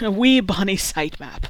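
a lightly put-on Scottish burr; bad Scottish accent. Cohost asked about sitemaps, answers in a bad Scottish accent. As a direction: play a hammed-up Scotsman talking to a lass, badly. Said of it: "our Scottish accents, uh, suck".

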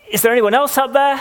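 high, loud call upward; desperate call. Acted. Man refuses God's answer, yelling high and loud. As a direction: yell past God for someone else. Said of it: "the man's heard to reply".

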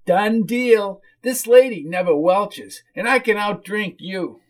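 high whiny boast; whiny hostess bragging. Acted. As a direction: brag in a high woman's whine.

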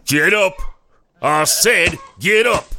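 father yelling at his daughter to get up; furious command. Acted. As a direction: shout her to her feet. Father ordering daughter to rise.

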